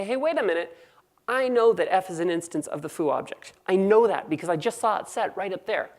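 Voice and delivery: indignant objection. Acted. Code analyzer catching a programmer's mistake, indignant. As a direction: play an incredulous fault-finder.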